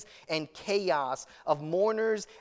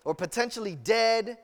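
lightly voiced desperate father, pressing harder; a worried dad begging Jesus to hurry, a touch more urgent; anxious father pleading; 3 semitones higher than usual. Father of a dying girl urging Jesus, mildly desperate plea. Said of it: "He's like".

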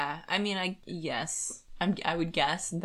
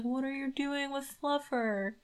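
put-on high, slow worried girl's plea; Melissa's voice; 8 semitones higher, 3 dB quieter than usual. Friend retelling the book, voicing Melissa, higher and slower. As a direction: voice the upset daughter asking about her cat.

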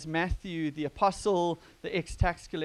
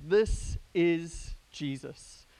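slow, spaced-out narrator intro; lightly voiced video narrator; cartoon narrator; 4 dB louder, much slower than usual. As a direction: announce it slowly, word by word. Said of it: "the narrator starts with the same words".

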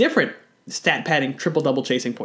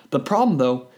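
normal talking voice

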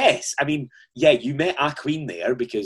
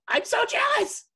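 higher and slow, hammed-up delight; mock gushing; slower than usual. Host recalling his thoughts about Kylie, mock gushing. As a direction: play up your own starstruck reaction. Retelling own jealous thought.

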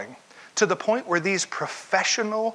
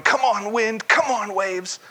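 mock struggle; 5 semitones higher, 3 dB louder, slower than usual.

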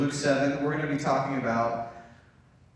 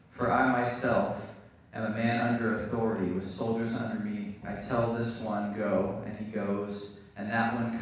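steady, measured Bible reading; scripture reading. Acted. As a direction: read the passage aloud to the church. Reads scripture aloud to church.

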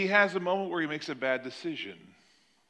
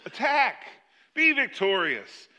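overdone rallying call, insincerely triumphant; sarcastic; 4 semitones higher than usual. Acted. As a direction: proclaim victory with mock gusto. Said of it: "there must have been some sarcasm in his voice".

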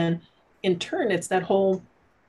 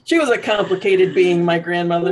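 laughing through tears; 2 semitones higher, 7 dB louder than usual. Real, not acted. Laughing while crying about grandmother.

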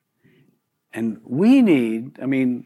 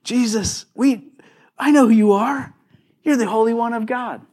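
humble confession; 6 semitones higher than usual. Retold or imitated. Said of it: "if it was a Christian saying".

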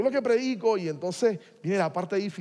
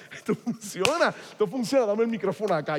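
growing excitement; 6 semitones higher, 5 dB louder than usual. Retold or imitated. Gets carried away at the healing.

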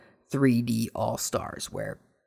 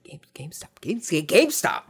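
stunned whisper; 3 semitones higher than usual. Retold or imitated. Stunned at seeing the box.

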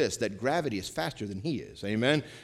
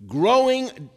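preaching emphasis; 11 semitones higher, 9 dB louder than usual. Real, not acted. Preacher hits new point.

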